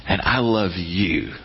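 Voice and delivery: gentle, slowing loving voice; tender God voice. Retold or imitated. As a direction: soften into I love you. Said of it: "He's going".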